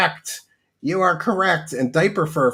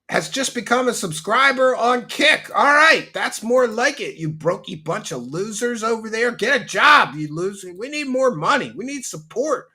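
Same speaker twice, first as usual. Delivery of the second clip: mock excitement; 5 semitones higher than usual. Mock greedy rant on new sub.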